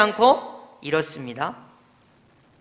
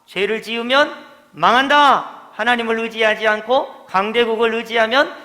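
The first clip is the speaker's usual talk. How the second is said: proclaiming warning; 4 semitones higher, 4 dB louder than usual. Retold or imitated. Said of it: "이렇게 계속 이야기한 거예요".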